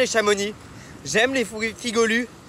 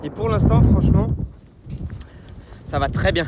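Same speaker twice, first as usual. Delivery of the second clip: shouting over wind; 5 semitones higher, 8 dB louder than usual. Real, not acted. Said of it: "Je sais pas si vous m'entendez avec le vent".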